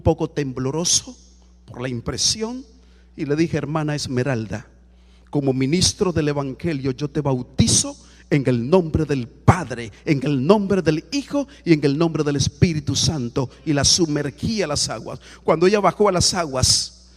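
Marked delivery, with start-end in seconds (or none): 3.6-13.5 solemn baptism formula. Retold or imitated. Pastor recites baptism formula.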